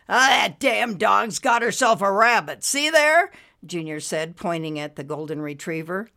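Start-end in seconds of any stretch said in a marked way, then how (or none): 0.1-3.3 loud, higher, indignant character voice; agitated outburst. A narrator's reading. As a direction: point out the outrage loudly. Junior upset, pounding fist at dog.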